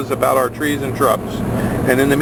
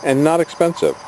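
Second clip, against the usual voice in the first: ad read; 6 semitones lower than usual. Real, not acted.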